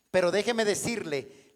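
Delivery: ordinary talk, nothing marked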